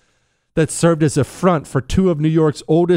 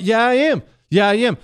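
high-pitched, eager defiance; giddy insistence; 10 semitones higher than usual. Real, not acted. Host insisting to Chris he will go gamble, giddy insistence.

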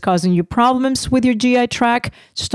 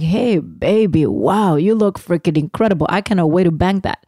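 flirty husband; 2 semitones lower than usual. Pretend. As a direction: lay it on like a smitten husband. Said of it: "I was hoping you'd be like".

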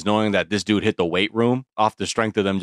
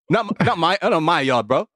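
put-on London roadman accent; 5 semitones higher than usual. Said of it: "I'm on Top Boy right now".

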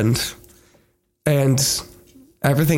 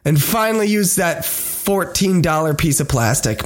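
announcer; 3 semitones higher than usual. Acted. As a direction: welcome listeners like a host. Show intro announcer.

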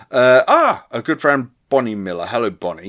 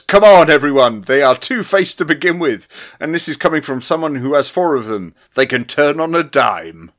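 rallying; 3 semitones higher, 5 dB louder than usual. Retold or imitated. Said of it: "He says".

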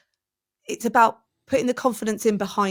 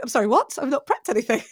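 retold shock; 4 semitones higher than usual. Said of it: "I went".

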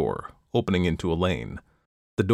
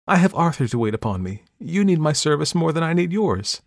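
good-humoured; 8 semitones higher, 3 dB louder than usual. Acted. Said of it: "good-humouredly".

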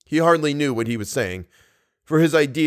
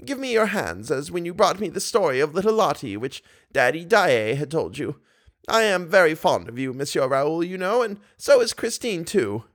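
put-on high, fond old lady voice; tender grandmotherly coaxing; 7 semitones higher than usual. A narrator's reading. Old lady calls Raoul near like a boy, high.

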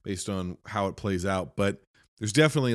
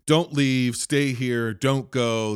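higher, firm retold commands; mildly controlling; 4 semitones higher, 4 dB louder, slower than usual. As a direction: imitate someone insisting she stay. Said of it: "gets a little controlling with her".

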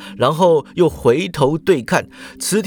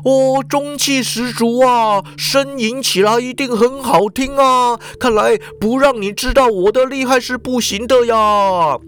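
smirking lecherous boss; 7 semitones higher than usual. A narrator's reading. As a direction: relish the threat with a leer. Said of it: "池田就笑着说". (色社长得意地笑着说)

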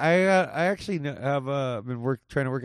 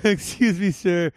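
pretentious yuppie; 4 semitones higher, 3 dB louder, slower than usual. Acted. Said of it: "pretentious Spago yuppies".

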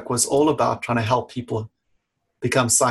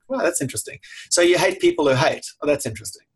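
wry sarcasm; 3 semitones higher, faster than usual. Retold or imitated. Therapist teasing a client about hating, wryly sarcastic. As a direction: tease them with feigned curiosity. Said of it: "And I'm like".

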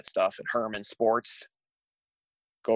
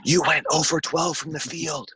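mock heckle; 7 semitones higher than usual. Retorting to ad slogan.

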